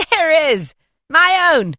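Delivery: high and loud, proud and jolly; joyful booming spirit proclaiming. Acted. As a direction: answer like a hearty giant ghost. Spirit answers Scrooge proudly.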